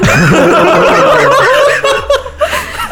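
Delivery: high, long burst of laughter; loud laughter. Real, not acted. Laughing at the tattoo joke.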